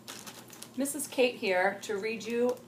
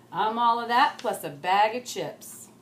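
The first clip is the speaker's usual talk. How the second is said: sassy; 6 dB louder than usual. Acted. Lucy struts off sassily.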